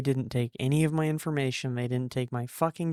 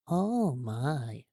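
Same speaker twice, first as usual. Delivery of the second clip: put-on shocked old lady. Older woman's shocked aside.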